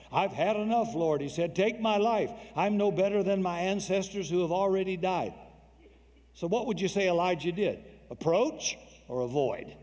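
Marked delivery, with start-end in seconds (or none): 0.1-5.3 despairing prayer. Retold or imitated. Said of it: "Elijah was afraid".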